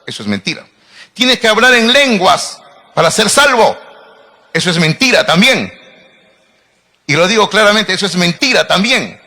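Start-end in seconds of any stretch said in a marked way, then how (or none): 1.1-3.8 higher, louder put-on preacher voice; mock-preaching a false doctrine; mocking false teacher. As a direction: parody a false teacher's pitch. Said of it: "Un falso maestro dice".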